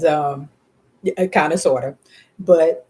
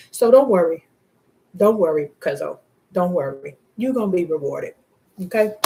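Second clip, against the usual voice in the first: emotional; 2 semitones higher, 4 dB louder than usual. Real, not acted. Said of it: "Didn't mean to get emotional".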